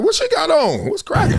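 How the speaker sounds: high-pitched, perky mock curiosity; retold eager interest. Thought she was coming to holler, retold eager interest. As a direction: lift it high like a hopeful admirer. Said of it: "I was like".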